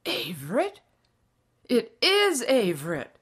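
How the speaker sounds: loud, rising disbelief into recognition; surprised cry. A narrator's reading. Farmer recognizes his old classmate, crying out in surprise. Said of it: "cried the other".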